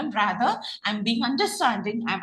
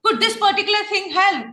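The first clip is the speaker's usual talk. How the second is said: recommending tone; 9 semitones higher, 4 dB louder than usual. Shown as a demonstration. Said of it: "You're making a recommendation".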